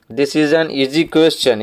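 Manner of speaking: very slow, word by word, like reading to a class; slow dictation reading. Shown as a demonstration. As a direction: read it out slowly so pupils can follow. Teacher reads exercise sentence aloud.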